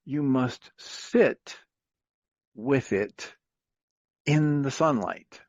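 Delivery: very slow, solemn sage voice; wise neighbor. Retold or imitated. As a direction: hand down the wisdom slowly, like an old master. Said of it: "And the neighbor says".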